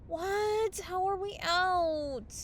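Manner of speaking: high, sharp disbelief, slowing down; can't believe it's gone; dismayed shock. Acted. Hangover cure has run out.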